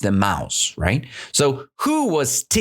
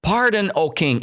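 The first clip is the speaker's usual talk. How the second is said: higher, lightly voiced mouse plea; small mouse pleading for its life; 8 semitones higher than usual. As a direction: beg the king, mildly teary. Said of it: "Little mouse".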